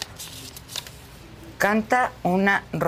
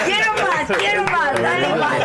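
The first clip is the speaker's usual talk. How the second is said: helium voice; 10 semitones higher than usual. Shown as a demonstration. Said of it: "la digo con Helio".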